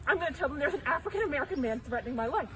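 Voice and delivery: loud angry threat. Real, not acted. Woman threatens man with police.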